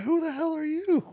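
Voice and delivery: high-pitched retold bafflement; mock disbelief. Retold reaction to drunk friend.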